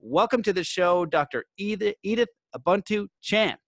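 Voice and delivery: measured announcer read with punched key words; podcast intro read. Acted. Host formally introducing today's guest to listeners, podcast intro read. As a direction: read out a guest bio, phrase by phrase.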